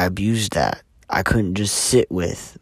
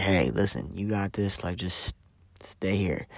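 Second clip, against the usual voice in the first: hushed, much softer reassurance; soft self-talk; 8 dB quieter than usual. Retold or imitated. Calming himself during a manic spell, hushed. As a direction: talk yourself down gently. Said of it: "you're trying to talk yourself through it".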